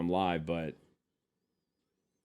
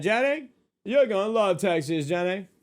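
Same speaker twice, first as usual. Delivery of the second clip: much higher, louder hammed-up southern accent; 10 semitones higher, 6 dB louder than usual. Promising his wife she'll love Texas, in a mock southern accent. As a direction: sell Texas to her like a cowboy would.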